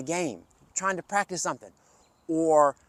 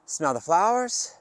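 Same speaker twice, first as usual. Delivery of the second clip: calm breathing guide. Shown as a demonstration. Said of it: "take three deep breaths".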